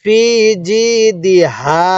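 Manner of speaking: measured ফি জি দি হা, each vowel clear; lightly voiced ha. Shown as a demonstration. Teacher correcting a common mistake, lightly voiced হা after দি. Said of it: "হালকা আওয়াজ করবেন".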